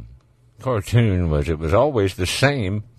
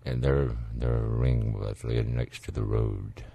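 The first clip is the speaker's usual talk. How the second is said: mock tearjerker; 10 semitones lower, 8 dB quieter, slower than usual. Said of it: "some of those little tearjerker".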